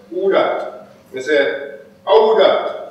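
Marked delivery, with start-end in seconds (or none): 0.1-0.9 high, half-voiced challenge; a stranger's high-pitched query; challenging call. Poem's overheard voice challenges. 2.1-2.8 much higher, punchier comeback; high, forceful echoed question; retorting challenge. Acted. Poet answers the challenge back.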